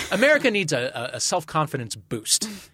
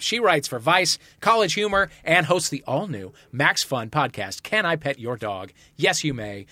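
announcer. Acted. Host introduces contestants.

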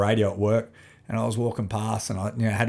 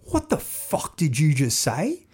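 mock menace; 3 semitones higher, slower than usual. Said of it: "went into straight".

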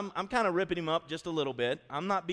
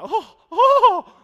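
high, loud laughing groan; laughing disbelief; 19 dB louder than usual. Real, not acted. Dad staring at his keyed truck, loud laughing disbelief. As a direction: crack up at the ruined truck.

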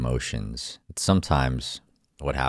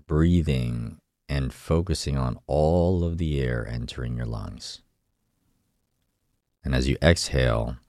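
calm guided meditation voice. Acted. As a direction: guide them inward, gently. Leads a meditation.

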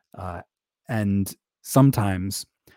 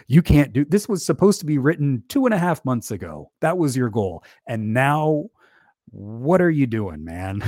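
mock scolding; 4 semitones higher than usual. Google Doc scolding him.

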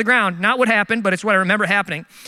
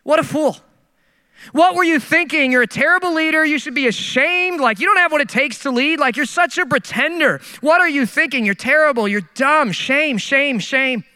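self-berating inner voice; 4 semitones higher than usual. Retold or imitated. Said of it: "have you just ever hated yourself?".

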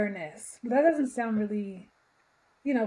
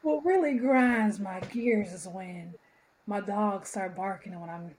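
put-on old-timey voice. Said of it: "Let me get back into character".

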